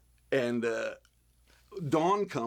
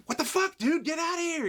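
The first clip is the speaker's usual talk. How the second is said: high, loud mock yell; 3 dB louder than usual. Crew shooing the creepy masked man away, hammed-up high yell. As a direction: shoo him off with a hammed-up yell. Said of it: "they go".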